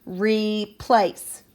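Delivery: "replace." as RE, short pause, PLACE; syllable by syllable. Shown as a demonstration. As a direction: give both syllables of "replace." equal, separate weight. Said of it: "Put your hand underneath your chin".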